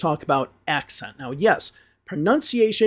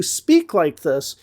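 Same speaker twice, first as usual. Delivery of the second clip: slow nasal Great Lakes accent demo; slower than usual. Shown as a demonstration. Teacher introducing clips of regional speakers, nasal Great Lakes accent. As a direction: draw out a nasal Michigan accent. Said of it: "that nasal accent like this".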